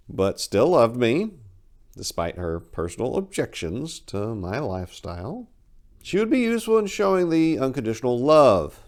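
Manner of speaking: measured storyteller reading a dark tale; story narration. A narrator's reading. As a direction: read it like a campfire horror story, unhurried. Reads her short story aloud.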